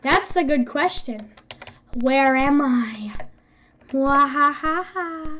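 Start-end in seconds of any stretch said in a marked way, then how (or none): 2.0-5.4 slow mock villain laugh; slow theatrical villain menace. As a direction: ham up a cartoon villain taunt. Taunting hider in game.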